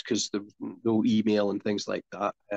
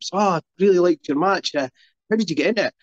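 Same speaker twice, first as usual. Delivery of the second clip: eager fan; 5 semitones higher, 4 dB louder, faster than usual. Retold or imitated. Eager fan talking to wrestler.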